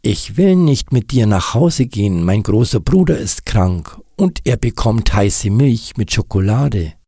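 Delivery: heller, lauter gerufener Kindersatz; gerufenes Kind. Acted. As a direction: ruf es wie ein kleines Kind über die Straße. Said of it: "den dieses Kind gerufen hatte". (Kind ruft laut hinüber)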